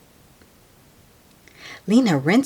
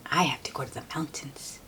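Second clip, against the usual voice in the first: faster unvoiced aside; quick whisper; 3 semitones lower, 10 dB quieter, much faster than usual. Real, not acted. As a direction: rush it under the breath.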